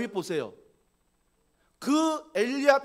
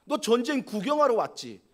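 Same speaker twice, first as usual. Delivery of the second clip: mocking; 2 semitones higher, 4 dB louder than usual. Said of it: "막 조롱하는 거죠".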